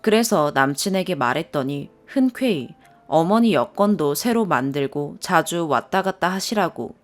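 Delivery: plain reading voice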